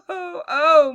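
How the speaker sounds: laughing mock cry. Acting kittens' crying.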